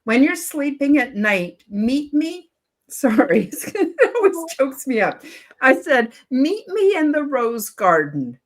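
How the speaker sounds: fighting back tears while getting the words out; choked up. Real, not acted. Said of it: "this is gonna make me cry a little bit".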